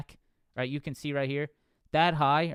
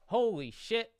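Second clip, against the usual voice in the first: surprised; 8 semitones higher than usual. Real, not acted. Streamer reacts to chat surprise.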